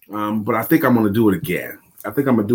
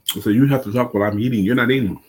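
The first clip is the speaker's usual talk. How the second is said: chewing while talking; faster than usual. Real, not acted. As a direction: mouth full, still chewing. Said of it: "that's because you're eating".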